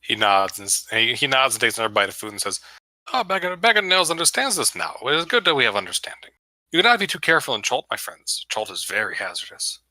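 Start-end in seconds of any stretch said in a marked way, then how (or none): 3.1-9.8 Bag of Nails. Acted. Tabaxi warning the party about Chult, in an accented character voice. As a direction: put on a badly faked Russian accent, amiable and cautioning.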